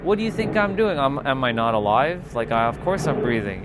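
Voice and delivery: hammed-up indignant reply; exasperated retort. Past self snapping back at friend on Zoom, mock outrage. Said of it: "I'm like".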